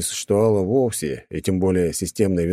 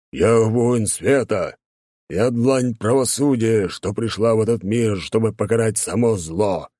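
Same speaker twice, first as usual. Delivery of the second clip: growling; 3 semitones higher, slower than usual. Acted. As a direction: proclaim it like a righteous warrior. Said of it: "рыкнул в ответ рыцарь".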